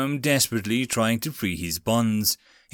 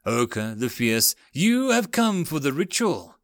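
rasping voice; 2 semitones higher than usual. Acted. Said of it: "A rasping voice came from the darkness".

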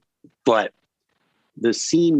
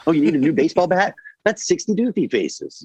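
higher, fast mock outrage at the kids; tally the cost like a bookie, pitched up; hammed-up dad quoting prices; mock pricing dad; 7 semitones higher than usual. Mock dad pricing in Doofy faces.

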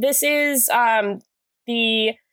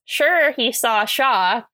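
slow, careful run at "sure he saw Shaw"; careful tongue twister; much slower than usual. Real, not acted. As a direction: take the tongue twister slowly, word by word. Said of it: "Quite a tongue twister".

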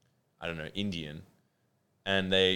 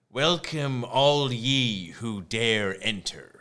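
slow, theatrical gatekeeper voice; ominous welcome; 3 semitones higher, much slower than usual. Retold or imitated. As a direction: intone it like a spooky castle host. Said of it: "that seems to be the vibe".

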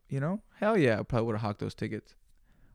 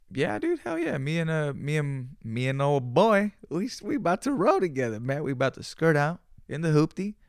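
pumped and eager, pitched way up; hyped reply; 3 semitones higher than usual. Retold or imitated. Voicing himself hyped to friend.

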